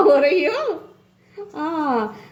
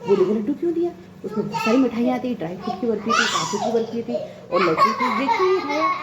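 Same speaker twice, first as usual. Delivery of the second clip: 1 aunt complaining; faster than usual. Retold or imitated. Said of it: "फिर बाद में कहती".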